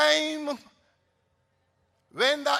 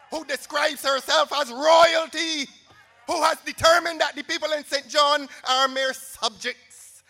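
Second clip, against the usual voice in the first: rally shout; 3 semitones higher, 5 dB louder than usual. Real, not acted. Rally speaker attacking opponent.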